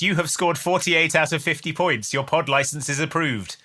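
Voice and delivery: flat robot voice announcement. Acted. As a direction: read it like a robot voice. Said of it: "a robot voice comes over the intercom".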